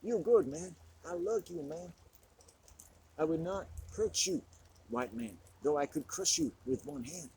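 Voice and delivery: mock tough-guy advice, playful, climbing to a high squeal; alpha male impression. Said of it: "like an alpha black male".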